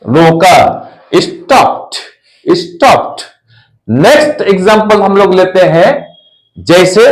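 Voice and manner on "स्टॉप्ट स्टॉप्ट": स्टॉप्ड as "stopt", released T at the end; final -ed as T. Shown as a demonstration. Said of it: "ठ आवाज आनी चाहिए".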